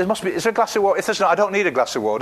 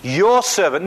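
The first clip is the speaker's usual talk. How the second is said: loud, raised accusing cry; 3 semitones higher, 5 dB louder, slower than usual. Acted. Widow crying out to Elisha about her husband, loud accusing protest. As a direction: call it out in protest. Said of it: "cried out to Elisha".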